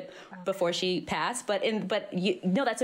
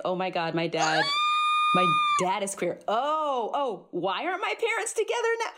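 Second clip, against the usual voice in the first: stunned realization. Retold or imitated. Retold shock at dad's news.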